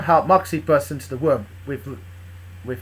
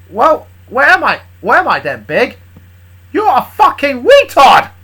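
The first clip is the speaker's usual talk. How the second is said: loud, drawn-out scornful shout; angry snapping; 9 semitones higher, 11 dB louder, slower than usual. Acted. Big snapping at Charlie with insults, angry shout. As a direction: yell each insult slowly and loudly. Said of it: "snapped at me".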